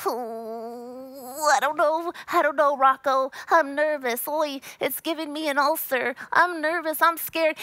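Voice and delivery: anxious, fretful cartoon turtle voice; nervous turtle Filbert. Imitating a cartoon turtle fretting to Rocko, nervous. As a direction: whimper it like a jittery cartoon turtle. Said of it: "and he's like".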